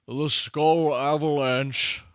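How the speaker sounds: slow, drawn-out awed announcement; dramatic announcement. Real, not acted. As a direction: drag it out like a trailer.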